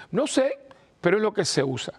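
put-on high, breezy young boy's voice; altar boy voice. Altar boy answers the priest about torn jeans, high kid voice. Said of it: "era uno de los monaguillos".

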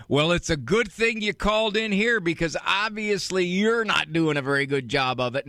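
dry, cutting mock put-down; a light demo of a biting sarcastic jab. Shown as a demonstration. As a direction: needle the caller with mild sarcasm. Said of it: "Sarcasm would be something like".

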